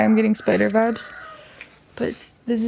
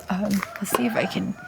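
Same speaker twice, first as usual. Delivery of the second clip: soft whisper while concentrating; 5 dB quieter than usual. Real, not acted. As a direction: breathe the words as you focus. Concentrating while starting to draw.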